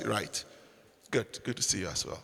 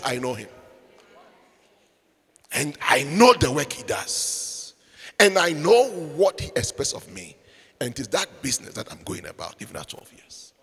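Jesus' words sinking low and soft; fading to whisper; 3 semitones lower, 5 dB quieter than usual. Acted. Preacher voicing Jesus, fading to a whisper. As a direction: let the boy's words fall to a hush.

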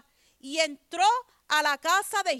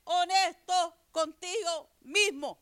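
each word drawn out slowly; slow, deliberate preaching emphasis; slow emphatic repeat; slower than usual. Real, not acted. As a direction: spell it out slowly for the congregation. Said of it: "Yo sigo repitiendo".

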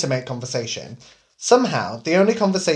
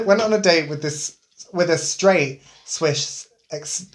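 laughing through words; much slower than usual. Real, not acted. Giggling through a story.

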